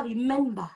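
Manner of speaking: "remember" said as "ree-MEN-ba"; French-accented "remember" ending in an open "ba"; mispronounced "remember". Shown as a demonstration. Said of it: "On ne dit pas".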